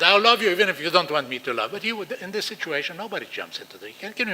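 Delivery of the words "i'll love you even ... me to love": loving scream. Shown as a demonstration. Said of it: "you can scream at the child".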